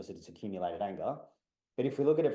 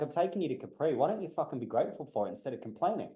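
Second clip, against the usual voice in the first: higher-pitched, hurried retold rebuke; exaggerated exasperation; 4 semitones higher, faster than usual. Man to partner complaining on Capri trip, exaggerated exasperation. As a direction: harsher retelling of a mild complaint. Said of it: "I didn't say it like that. I was nicer than that".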